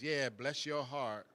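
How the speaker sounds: slow, soft "bless your heart" with a smirk; dry sarcastic blessing. Shown as a demonstration. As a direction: let the pity drip, quietly. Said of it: "it's kind of sarcastic".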